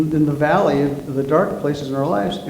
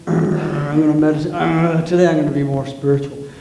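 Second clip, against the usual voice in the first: lightly voiced eager seeker; a hint of a self-important meditator; mock earnest seeker. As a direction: poke fun at trying too hard. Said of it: "have you ever tried to have".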